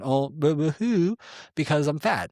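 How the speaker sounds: high, whiny boo-hoo; mock self-pity. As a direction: whimper it like a fake crybaby.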